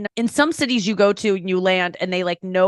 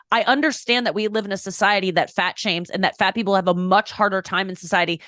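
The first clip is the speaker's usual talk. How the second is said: ordinary talk, nothing marked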